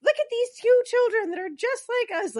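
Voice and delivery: high, loud hammed-up pleading; over-the-top retold appeal; impassioned mock plea.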